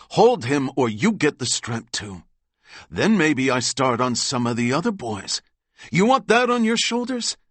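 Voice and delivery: bully them with a loud, furious threat; angry threat. Acted. DeMarco threatens the brothers to hold the boy, loud and furious.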